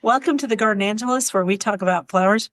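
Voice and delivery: brisk, practised podcast welcome; sped-through intro. Real, not acted. Host opens the gardening podcast, speeding through. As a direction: rattle off the show's opening quickly. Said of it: "we sped through it that time".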